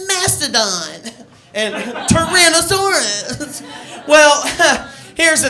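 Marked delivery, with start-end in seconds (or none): 0.1-4.1 lightly voiced Power Ranger call, higher and slow; Power Ranger roll call. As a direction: call out the Zord name like a kid ranger. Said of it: "everybody got to go".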